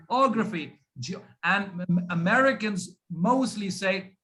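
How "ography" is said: "ography" with the O hit first and falling after; stress on O. Shown as a demonstration. Teacher repeats the stressed part, strong O in "ography". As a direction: lean hard on the opening O of "ography". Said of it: "the stress is on o".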